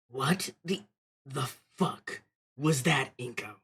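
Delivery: slow, drawn-out character voice; a lightly voiced angry character. Reading the game character's shocked line, lightly voiced. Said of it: "I had to do his voice".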